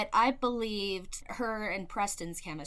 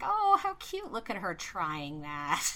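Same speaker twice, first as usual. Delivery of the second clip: condescending; 3 dB louder than usual. Retold or imitated. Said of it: "And I'm like".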